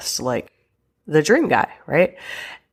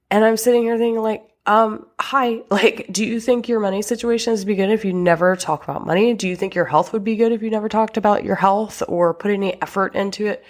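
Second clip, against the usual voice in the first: higher, fast and incredulous; exasperated rant; 4 semitones higher, faster than usual. Real, not acted. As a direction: pitch it up, hammering home the obvious. Rant about couples never talking.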